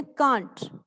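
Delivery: "can't" as one syllable, kaant; pronunciation model. Shown as a demonstration. Teacher showing how it is said, "can't" as kaant. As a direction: say CAN'T with a long aa, falling. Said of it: "इसको बोलते हैं".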